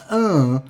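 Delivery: loud, high groan of disgust; exasperated groan. Acted. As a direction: groan "uh" as if fed up. Fed-up groan at the tweets.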